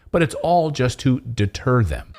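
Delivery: slow, laughing in disbelief; scoffing laugh. Real, not acted. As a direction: laugh it off with contempt. Laughs at the claim.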